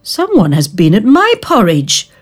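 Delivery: a lightly voiced cross mother bear; mother bear complaining; mild mother bear growl. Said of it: "growled Mother Bear".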